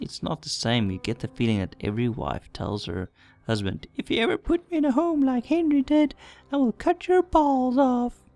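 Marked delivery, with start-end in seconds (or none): 3.9-8.1 very high-pitched put-on woman's voice. Speaker voices what every wife tells her husband, in an every-wife voice. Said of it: "that's my every wife voice".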